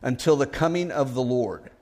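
measured, solemn Bible reading; steady pulpit reading voice; scripture reading. Acted. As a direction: read the passage with reverence. Scripture reading before the sermon.

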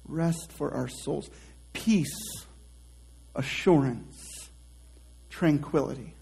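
quiet, even repeat of the phrase; plain quiet repeat; soft, savoring. Shown as a demonstration. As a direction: say it softly as it washes over you. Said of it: "it just washes over you".

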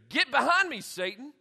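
emphatic command, dropping on the last word; strong comeback. Acted. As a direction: come back at him forcefully. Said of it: "Jesus strongly comes back at him".

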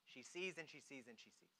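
very soft, low murmur; hushed refrain. Real, not acted. Preacher closes the story of Mary seeing, hushed. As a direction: let the refrain drop almost to a whisper.

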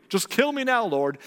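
high, dramatic plea; melodramatic Jonah. Acted. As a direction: plead as if you've had enough. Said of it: "This is something Jonah says a lot".

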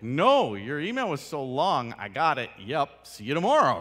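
loud, brisk reply; mock curt boss reply; brisk and blunt. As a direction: fire it off short and done. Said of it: "I'm just like".

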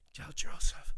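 breathy, gasping dying father's words; gasping for breath. Retold or imitated. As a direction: gasp out the words like a dying man. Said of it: "just gasping for breath near the end".

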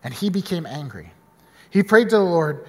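low, measured Bible reading; scripture reading. Acted. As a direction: read the passage to the congregation. Reading Jonah scripture aloud.

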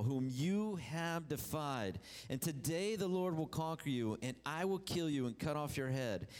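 lifted, declaiming Bible reading; preacher delivering David's defiance; fervent scripture reading. Acted. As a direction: proclaim David's challenge. Preacher reads David's speech.

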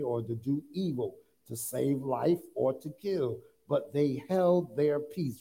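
measured, emphatic Bible reading; scripture reading. Acted. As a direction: read the verse out deliberately to the congregation. Reads scripture aloud to congregation.

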